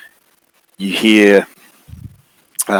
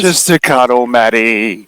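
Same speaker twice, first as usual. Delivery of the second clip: creepy figure; 4 semitones higher, 5 dB louder, slower than usual. Acted. Figure lures Maddie.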